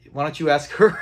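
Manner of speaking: amused quote that cracks up at the end; laughing retold line. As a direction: retell it while breaking into a laugh. Retelling Fred's line, breaking into laughter.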